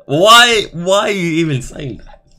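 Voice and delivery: high, loud exasperated why; incredulous outburst. Real, not acted. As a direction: burst out in disbelief. Mock outrage at the reading.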